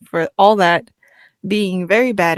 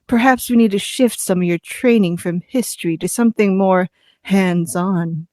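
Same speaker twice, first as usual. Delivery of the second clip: breathy voice. Acted. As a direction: read it breathy and intimate. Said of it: "Stop reading that in a breathy voice".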